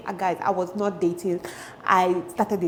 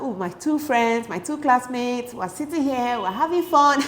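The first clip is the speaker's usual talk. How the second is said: mock innocent glee, rising higher; naive delight; 4 semitones higher than usual. Telling viewers how happy she was between friends, naive delight.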